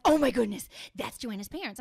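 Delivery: imitating a starstruck friend; sudden loud oh my goodness; excited gasp. Friend voiced excitedly in story.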